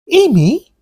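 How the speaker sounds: high startled call of her name; alarmed call. Acted. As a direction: call to her, suddenly frightened. Alarmed calling to Amy.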